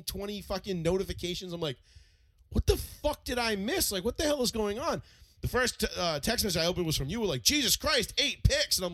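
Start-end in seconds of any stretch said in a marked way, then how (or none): 2.5-5.0 higher, baffled exclamation; what-did-I-miss incredulity; retold bewilderment. Retells bewilderment at flood of notifications. 7.4-8.8 high-pitched astonished exclamation; stunned, higher outburst; retold shock. Voices friend's shocked text.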